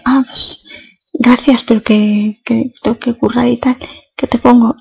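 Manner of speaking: polite but a little curt, brushing him off; slightly curt tone. Retold or imitated. Barmaid brushing off a flirting customer, a bit curt. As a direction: thank him, then hurry him along to order. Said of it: "con otro tonillo de".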